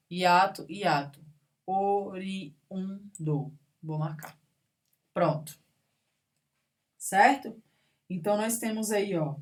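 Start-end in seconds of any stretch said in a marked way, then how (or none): 1.7-3.5 "Oriundo" slowly as o-ri-un-do; syllable by syllable. Shown as a demonstration. Teacher marking a hiatus, slow syllables. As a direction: draw out and space each syllable of "Oriundo". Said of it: "Se separam".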